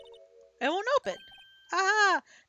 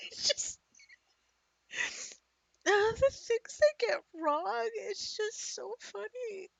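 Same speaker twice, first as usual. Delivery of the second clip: high, helpless giggling; can't stop laughing at the game; laughing fit; 12 semitones higher, 3 dB louder, slower than usual. Real, not acted. Player laughs at the game's Texas jokes. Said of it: "I shouldn't laugh".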